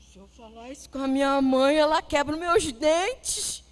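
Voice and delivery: menino contando, mais alto e devagar; voz de criança. Retold or imitated. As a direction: leve voz de criança assustada com a mãe. Criança Pedrinho fala da mãe. (Pedrinho contando da mãe, voz de criança leve)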